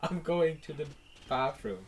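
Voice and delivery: teasing imitation of a posh English accent, fading to soft with laughter; mock posh accent. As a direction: parody a friend's posh line, laughing. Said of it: "practicing it in front of the mirror".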